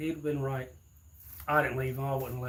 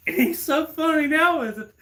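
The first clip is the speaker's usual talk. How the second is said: much higher and louder gloating sing-song; mocking taunt; 12 semitones higher, 10 dB louder than usual. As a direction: tease him back with a high crowing jab. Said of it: "I said".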